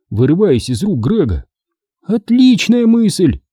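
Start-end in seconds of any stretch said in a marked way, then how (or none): 2.0-3.4 slow, high smug reply; smirking. A narrator's reading. Sherry smirks agreeing to hit Chicken, slow smug. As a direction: savor the threat. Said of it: "ухмыльнулась Шерри".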